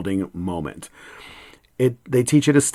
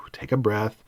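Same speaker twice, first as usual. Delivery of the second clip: soft unvoiced whisper; whispered breath cue; 8 dB quieter than usual. Shown as a demonstration. Whispering to an upset student to take a breath. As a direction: breathe the words out, barely a whisper.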